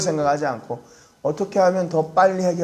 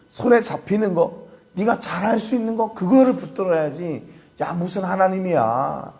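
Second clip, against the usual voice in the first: imitated scoffer, pitched higher as it goes; mocking advice; 4 semitones higher than usual. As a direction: lightly act out a jeering, pushy adviser. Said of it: "충고가 아니라 뭐냐면 조롱하는 거예요". (조롱하듯 점점 높여 충고하는 흉내)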